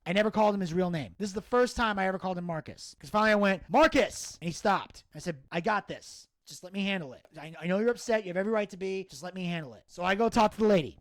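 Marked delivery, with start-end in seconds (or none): 3.7-4.4 name called out, higher-pitched; retold sharp call. Calling an upset friend by his real name, retold call. 5.5-9.8 calming. Retold or imitated. Talking down a friend upset about his dying mother, calming. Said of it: "I'm trying to calm Buff down".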